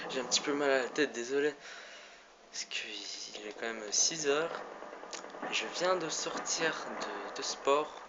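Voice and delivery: tired and a bit breathless; worn out after sport; after a workout. Real, not acted. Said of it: "je suis crevé".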